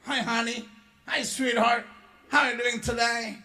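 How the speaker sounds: lightly voiced friendly waiter welcoming guests; sweet waiter greeting. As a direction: greet them like a cheery American waiter. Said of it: "langsung dia bilang".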